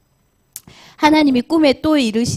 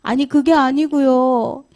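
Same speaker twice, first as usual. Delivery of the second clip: sheepish excuse; 3 semitones higher, slower than usual. Acted. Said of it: "변명을 대요".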